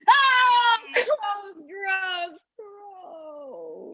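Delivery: loud wail of disgust fading away; grossed-out cry; revolted wail. Acted. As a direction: wail it out, sickened, then tail off. Revolted by sight of broken kneecap.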